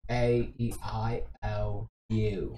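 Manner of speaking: soft, low British-accent vowels; quietly demonstrated British vowels. Shown as a demonstration. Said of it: "it's all about the vowels".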